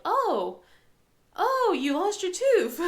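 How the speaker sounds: high, loud, slow gushing with a laugh; mock excited. To daughter, a mock delighted gush. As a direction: gush over the news, half laughing. Parents faking excitement over tooth.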